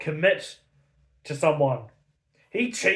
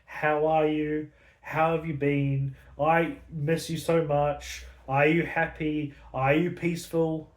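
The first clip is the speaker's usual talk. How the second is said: tender questions. Retold or imitated. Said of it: "does he ask his husband".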